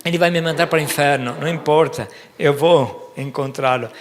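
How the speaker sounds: fast, eager Peter thinking aloud; rushed inner voice. Acted. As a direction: blurt it out quickly as Peter. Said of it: "talvez Pedro pensava".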